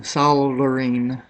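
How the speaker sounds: "soldering" drawn out slowly with the L sounded; deliberate pronunciation. Shown as a demonstration. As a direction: stretch "soldering" into a slow SOL-der-ing. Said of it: "or is it soldering?".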